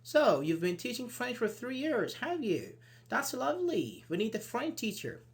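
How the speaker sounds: lightly acted, lifted interviewer voice; interested employer. Shown as a demonstration. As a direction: react with interest to a job applicant. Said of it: "and I say".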